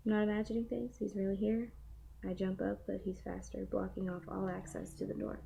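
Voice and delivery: steady storybook reading; reading aloud. Acted. Reads a novel passage aloud.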